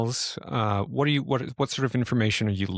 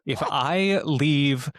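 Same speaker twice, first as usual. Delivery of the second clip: math word problem. Pretend.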